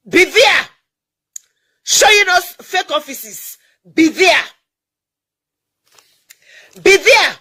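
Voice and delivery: loud, high hammed-up ad shout; monster truck ad. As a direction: bellow it like a hype announcer. Mocking shouts at rival groups.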